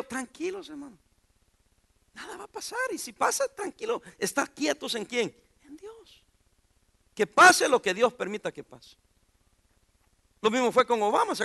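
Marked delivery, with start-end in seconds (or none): 0.0-6.2 soothing reassurance. Retold or imitated. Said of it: "¿Qué les decía yo?".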